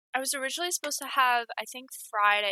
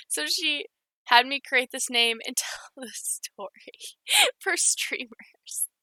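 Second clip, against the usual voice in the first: whispered giggle; 2 semitones higher, slower than usual. Real, not acted. Reading a funny message.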